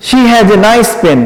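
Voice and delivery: very slow, word by word; slow dictation. Shown as a demonstration. Teacher dictating the sentence slowly to students. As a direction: spell out every word for the notes. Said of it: "এখন কি হয়ে গেল".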